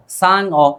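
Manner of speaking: सांग अ broken in two, "saang, o"; wrongly split word. Shown as a demonstration. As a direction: split सांग अ, closing on ng before a separate vowel. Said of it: "बोलने में तो ऐसा ही लगता है".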